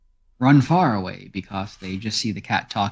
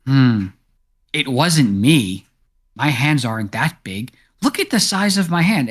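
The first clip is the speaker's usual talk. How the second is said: defensive cat; 3 semitones higher, 4 dB louder than usual. Acted. Cat denies slaying animals.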